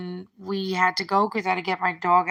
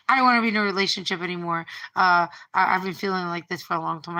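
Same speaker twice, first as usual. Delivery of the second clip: fast, louder, blurted out; rushed; 5 dB louder, faster than usual. Retold or imitated. Boyfriend ends the relationship, fast and louder. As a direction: rattle it off to get it over with. Boyfriend's breakup line retold.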